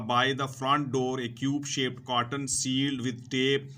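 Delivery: slow, deliberate reading to students; careful classroom read-aloud; slow textbook reading. Acted. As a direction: read each word out slowly for learners. Reads textbook English slowly to students.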